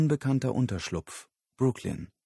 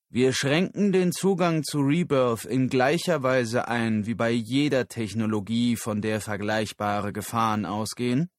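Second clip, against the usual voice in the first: raised, emphatic speech to an audience; firm public speaker; 2 semitones higher, 5 dB louder than usual. Acted. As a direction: state the policy firmly. Moore spricht vor Publikum. (bestimmte Rednerstimme)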